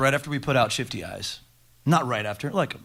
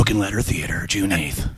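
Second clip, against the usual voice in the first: lightly done trailer announcer; movie trailer voice; 4 semitones lower, 4 dB louder than usual. Pretend. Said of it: "That's my movie voice".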